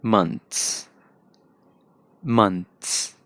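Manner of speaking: American English months; American accent. Shown as a demonstration. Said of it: "and American होगी".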